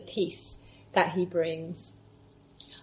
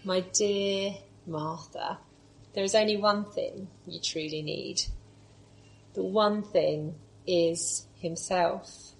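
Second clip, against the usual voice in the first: loving and compassionate; 4 dB quieter than usual. Acted. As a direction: say it like gently holding a tired friend. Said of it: "you can hear the love and compassion in his voice".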